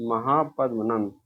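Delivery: महापद्मनंद spoken slowly, syllable by syllable; slow the name down so students catch it; teacher repeating the answer slowly; slow emphatic repeat. Shown as a demonstration. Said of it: "महापद्मनंद थे".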